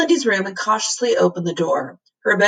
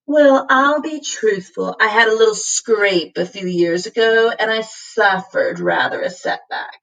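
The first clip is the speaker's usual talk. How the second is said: a hint of an embarrassed cat; cat owning up, mild; sheepish cat; 3 semitones higher than usual. Cat confesses a lost life.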